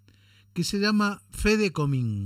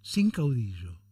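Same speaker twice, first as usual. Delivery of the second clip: measured, solemn poem reading with falling line ends; poem recitation; 3 semitones lower than usual. Acted. Radio host reciting a political poem to listeners, declaimed. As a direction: recite the verses deliberately, pausing between lines.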